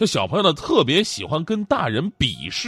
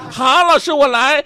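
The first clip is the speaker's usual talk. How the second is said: put-on high eager kid; child voice; 10 semitones higher, 6 dB louder, slower than usual. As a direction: chirp up like a boy. Child accepts challenge.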